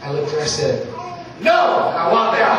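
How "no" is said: high, sudden mock shout; abrupt refusal. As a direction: burst out with a comic, emphatic no. Dad abruptly refuses after polite request.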